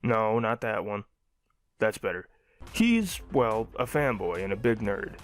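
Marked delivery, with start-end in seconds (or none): none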